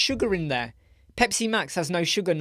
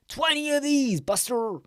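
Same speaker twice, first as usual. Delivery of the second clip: mock boast; 10 semitones higher than usual.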